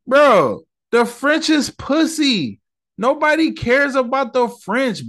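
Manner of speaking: high-pitched exasperated rant; worked-up indignation. Real, not acted. Man ranting at the French over a movie complaint, indignant. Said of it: "I'm just mad 'cause".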